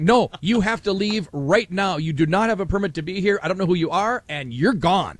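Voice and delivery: firm retold eviction, word by word; fuming. Retelling the fair official ordering the hosts off, fuming. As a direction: imitate an official ordering people out. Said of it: "he was just fuming".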